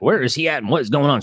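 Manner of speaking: a mock anxious mother asking for her son; imitating worried mom. Husband imitates his wife fretting about their son, mock worried. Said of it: "that's where mom freaks out".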